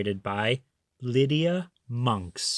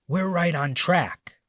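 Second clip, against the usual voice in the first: thief voice; 4 semitones higher than usual. Acted. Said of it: "said Hugh".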